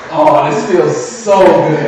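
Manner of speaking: drawn-out, savouring sigh of comfort; blissful relief. Retold or imitated. Tired worker flopping onto bed after work, slow blissful relief. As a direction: stretch it out slowly, luxuriating.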